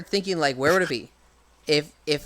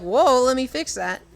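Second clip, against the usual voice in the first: higher Impa voice; 7 semitones higher, 4 dB louder than usual. Retold or imitated. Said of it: "She literally would be like".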